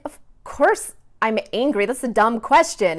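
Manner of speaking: imitated judgy, emphatic comeback. Daughter calling mom out on her question, mock judgy. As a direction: mimic a child calling out a dumb question. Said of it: "she made a very judgy response".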